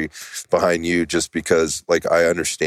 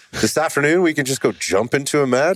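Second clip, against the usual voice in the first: high-pitched disbelieving echo; incredulous; 10 semitones higher than usual. Retold or imitated. Guest reacting to Tony's match offer, incredulous. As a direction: repeat it back in disbelief, pitch jumping way up. Retelling own surprised reaction to friend.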